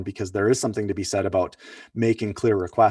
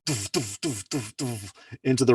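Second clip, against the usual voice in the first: stomping noises; 2 semitones higher than usual. Retold or imitated. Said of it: "stomping and fuming".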